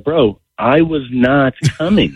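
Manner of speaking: retold emphatic protest; emphatic retort. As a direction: insist firmly on "not coming". Retelling emphatic reply to friend.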